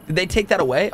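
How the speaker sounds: ordinary talk, nothing marked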